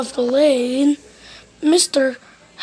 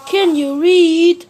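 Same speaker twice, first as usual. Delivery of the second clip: sarcastic snap; 4 semitones higher, 6 dB louder, slower than usual. A narrator's reading. Mister Rude snaps at visitor.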